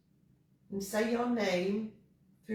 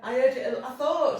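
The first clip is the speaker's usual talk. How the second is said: excited; 5 dB louder than usual. Real, not acted. Excitedly reacting to the spirit voice.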